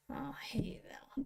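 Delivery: soft whispered aside. Real, not acted. An aside to viewers mid-rant, whispered. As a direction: drop to a whisper.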